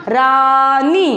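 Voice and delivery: रानी drawn out as रा...नी; syllable by syllable. Shown as a demonstration. Teacher sounding out the word just built, syllable by syllable. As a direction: hold each syllable of रानी long. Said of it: "शब्द क्या बना बेटा अपना?".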